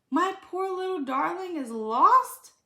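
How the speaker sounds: high, loud dismayed cry; distressed owner. Acted. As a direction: gasp it out over the lost pet. Mrs Wood hears dog is lost.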